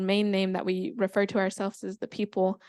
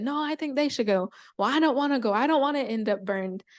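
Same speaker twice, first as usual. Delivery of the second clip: higher-pitched squabbling animals; arguing; 3 semitones higher than usual. Acted. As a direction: bicker back and forth, lightly acted. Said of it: "they're all arguing about who they're going to send".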